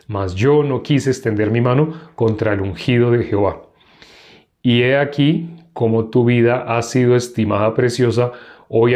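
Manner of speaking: measured Bible reading aloud; scripture reading. Acted. Teacher reads David and Abisai's night raid, measured scripture reading. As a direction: read the chapter out evenly, phrase by phrase.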